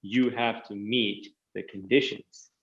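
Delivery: slow, deliberate and measured. Shown as a demonstration. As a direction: spell it out slowly as a firm requirement. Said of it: "that sounds better".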